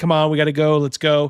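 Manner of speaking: acted, mock-gentle coaxing tone. Acting out how someone might gently move a person along, imitating gentle coaxing. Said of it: "gently like putting your hands on someone's back".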